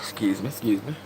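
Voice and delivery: soft whispered excuse me. Real, not acted. Streamer whispering an apology while checking something. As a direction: whisper it politely, not to disturb.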